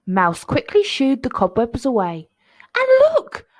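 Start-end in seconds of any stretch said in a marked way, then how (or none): 2.7-3.5 high, loud thrilled exclamation; high-pitched delight at a find; delighted smile. A narrator's reading. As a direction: cry it out with a big smile. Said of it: "he smiled".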